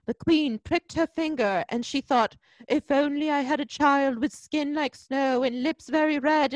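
mock fairy-tale narrator, lightly put on; god-awful voiceover. Mocking the movie's voiceover to co-hosts, hammed-up narrator. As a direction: parody an overwrought film voiceover. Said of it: "there's this just god-awful voiceover".

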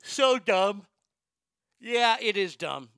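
loud, high exasperated scoff. Real, not acted. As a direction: scoff at how dumb it is. Disgusted reaction.

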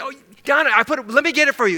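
eagerly helpful, acted; without grumbling. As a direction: hurry to oblige, no complaint in it. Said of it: "would you do it without grumbling".

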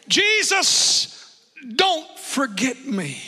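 high call on the name, slow falling plea; pleading prayer. Retold or imitated. Preacher repeats his prayer for the congregation, slow and pleading. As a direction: draw out the plea after calling the name. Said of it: "You ever prayed that".

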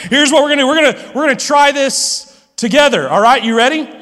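hyped-up invitation to the audience; excited call to the crowd. Real, not acted. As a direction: pump up the room to try it together. Rallying the congregation to join.

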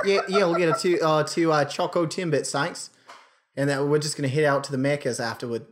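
casual Australian drive-through customer; put-on Australian accent. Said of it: "I'll put on an accent".

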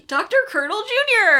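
loud, high-pitched mock fanfare; gleeful, hammed-up name announcement; grand introduction. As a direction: announce him like a beloved star. Grand introduction of favorite character.

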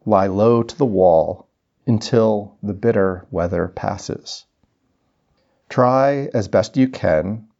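slow, deliberate poetry recital; poem reading. Acted. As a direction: read verse in measured phrases with long pauses. Reads John O'Donohue poem.

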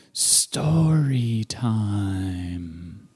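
slow, drawn-out storytelling voice; storyteller voice. Shown as a demonstration. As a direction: announce it like a radio storyteller. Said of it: "I'm gonna do something today called".

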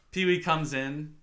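normal talking voice

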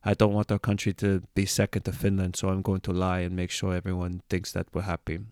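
put-on Danish accent, even pitch. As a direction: imitate a Dane speaking English. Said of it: "that's my best Danish accent".

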